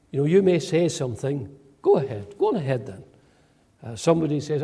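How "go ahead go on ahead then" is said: understated sarcastic go-ahead; lightly mocking permission, falling away. Shown as a demonstration. Replying to someone who won't be stopped, sarcastic. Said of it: "in a sarcastic tone".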